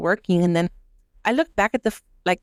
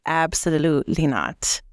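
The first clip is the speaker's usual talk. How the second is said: slow, lower, firm no; flat refusal; 4 semitones lower, slower than usual. Retold or imitated. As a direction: shut her down slowly and coldly. Firm refusal to rude customer.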